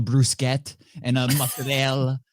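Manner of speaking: BRUSCHETTA as broo-SKET, MOZZARELLA as mutza-DEL; mock show-off Italian BRUSCHETTA and MOZZARELLA, endings dropped; affected Italian pronunciation. Mocking pretentious shoppers, dropped-vowel Italian on BRUSCHETTA and MOZZARELLA. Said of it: "If you're gonna speak like that".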